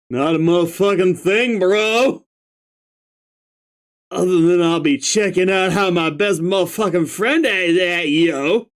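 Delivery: stoner voice. Acted. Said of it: "I can do stoner voice".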